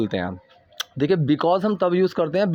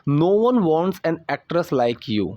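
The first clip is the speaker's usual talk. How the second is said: slow model sentence; much slower than usual. Shown as a demonstration. Teacher models slow English line.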